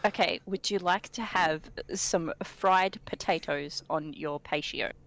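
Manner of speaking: slow, careful plain version of the Kiwi phrase; slow explanation. Shown as a demonstration. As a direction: spell it out slowly so it is clear. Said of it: "when you say it very quickly".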